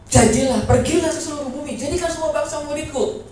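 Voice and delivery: loud opening command, then easing slightly; Tuhan Yesus. Acted. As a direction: proclaim the order with authority. Acts Jesus giving a command.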